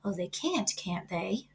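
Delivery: dry whispered murmur to herself. A narrator's reading. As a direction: say it under your breath, amused. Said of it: "murmured Charlotte to herself".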